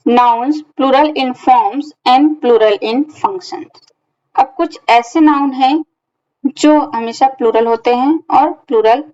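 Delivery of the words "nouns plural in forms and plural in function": slow title reading. Shown as a demonstration. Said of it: "अगला concept हमारा है".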